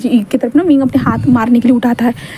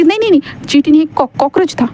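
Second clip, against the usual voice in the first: fast, higher, tripping over words; flustered denial; 3 semitones higher than usual. Acted. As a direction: scramble to cover the lie. Caught lying, flustered denial. (घबराकर तेज़ी से इनकार)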